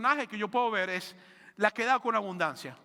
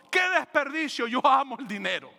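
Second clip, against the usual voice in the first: mock shout; 3 semitones higher, 4 dB louder than usual. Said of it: "Mas Judas gritó".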